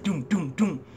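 vocalised knocking, evenly spaced; thudding sound effect done by mouth; imitated door knocks. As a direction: mimic three knocks on a door. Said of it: "all of a sudden, you hear it".

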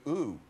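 an "ooh" used as a jeer; imitated German boo. Actor showing the audience how Germans boo, imitated jeer. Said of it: "when Germans boo, they go".

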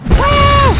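sharp high whoop; high cheer. Real, not acted. A player whoops as he clears the jump.

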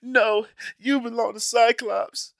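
hammed-up Wolverine turning Jean away; mock Wolverine. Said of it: "he was like".

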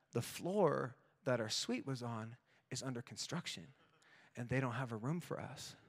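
quiet, deflated wife; grim news. Retold or imitated. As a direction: deliver bad news flatly and hushed. Wife delivers bad news.

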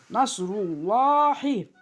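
"Nasrullahi" chanted with a heavy, long "llaa"; thick lam recitation. Shown as a demonstration. Teacher demonstrating the rule, "Nasrullahi" with thick lam. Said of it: "Kalın".

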